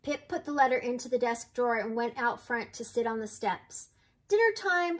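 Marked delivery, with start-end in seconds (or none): 4.3-5.0 high, lifted dinner call; storybook grandma calling everyone in. A narrator's reading. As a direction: sing it out to summon the family. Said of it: "called Grandma Nan".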